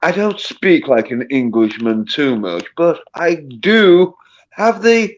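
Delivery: put-on proper English accent; deliberate posh English accent; Queen's English. Shown as a demonstration. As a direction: speak in careful Queen's English, unhurried. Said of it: "Queen's English".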